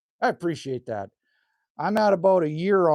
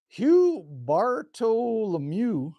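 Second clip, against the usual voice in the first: drawn-out name; 5 semitones higher, much slower than usual. Shown as a demonstration. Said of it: "I'm gonna call you Hugh".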